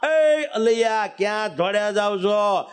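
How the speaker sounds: mild mock call across a distance. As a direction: call the two riders back, lightly. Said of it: "બૂમ પાડેલા". (હળવી બૂમ પાડીને બોલાવવું)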